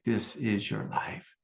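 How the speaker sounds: slow, solemn voice of God. Retold or imitated. God speaking to the teacher on retreat, slow and solemn. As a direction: let each word land slowly like a divine pronouncement. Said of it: "God was like".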